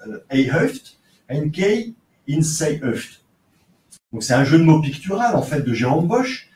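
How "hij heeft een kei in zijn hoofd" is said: slow, careful Flemish in a French accent. Shown as a demonstration. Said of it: "excusez mon accent".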